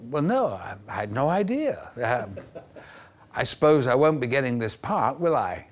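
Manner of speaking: a touch of panicked backpedalling, voice jumping up; flustered young actor. Retold or imitated. Actor retelling his flustered reply to the director, mildly hammed. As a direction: stammer it out, caught out and embarrassed. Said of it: "I went".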